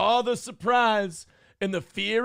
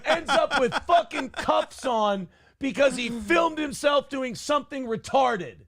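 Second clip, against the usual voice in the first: high, laughing, shouted glee; laughing rant; 5 semitones higher than usual. Real, not acted. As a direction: gloat with a laugh in the voice. Laughing rant about the arrest.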